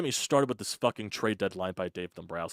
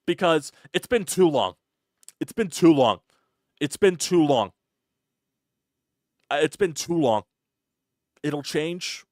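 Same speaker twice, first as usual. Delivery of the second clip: exasperated rant; 7 semitones higher, 7 dB louder than usual. Real, not acted. Fan ranting at team slump.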